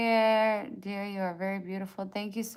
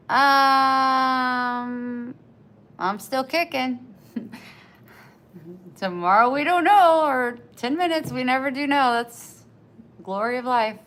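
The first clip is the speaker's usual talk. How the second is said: much louder and higher, near tears; impassioned; 5 semitones higher, 11 dB louder than usual. Real, not acted. Streamer answering a worried viewer, near tears. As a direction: cry it out with feeling. Emotional reply about hospital.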